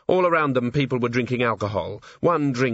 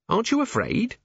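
high, lightly voiced worried question; anxious questioner; 14 semitones higher than usual. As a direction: ask a companion with mild unease. Nervous dwarf questions companion in fog.

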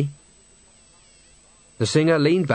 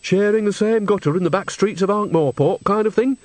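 higher character voice, gently probing; understanding; 7 semitones higher than usual. A narrator's reading. Nanny asks Henry about his old sweetheart, understandingly. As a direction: ask as one who understands, lifting at the end. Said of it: "said Nanny in an understanding voice".

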